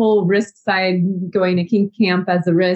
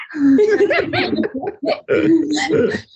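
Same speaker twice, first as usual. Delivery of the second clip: put-on nervous giggle; nervous laugh; 7 semitones higher than usual. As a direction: laugh along to ease the nerves. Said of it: "I'll do the nervous laugh together".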